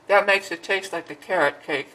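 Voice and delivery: talking while chewing; mouth full. Real, not acted. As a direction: say it through a mouthful. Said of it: "Sorry to be talking with my mouth full".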